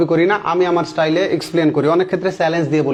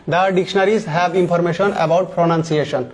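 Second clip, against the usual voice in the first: slow read-aloud; much slower than usual. Shown as a demonstration. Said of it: "reads the English sentence slowly".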